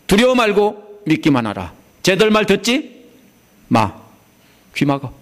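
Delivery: firm urging command; Jesus urging the synagogue ruler not to fear; voicing Jesus. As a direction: tell him to ignore them, firmly. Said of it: "이런 소리입니다".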